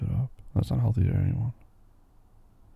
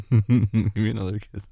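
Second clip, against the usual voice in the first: laughing; slower than usual. Acted. Laughing with sleepy partner.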